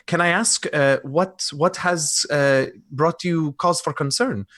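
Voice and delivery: reply graciously, with mild concern creeping in; courteous, concerned lodger. Acted. Lodger answering a worried caller, courteous and mildly concerned. Player answers in character on phone.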